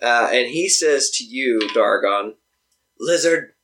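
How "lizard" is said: orc voice. Acted. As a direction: growl it like a war chief orc. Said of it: "I like your orc voice".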